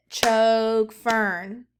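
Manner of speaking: "Chog fern" loud, one beat per syllable; clapped syllables. Shown as a demonstration. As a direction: clap it out loudly for the class. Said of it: "Clap it".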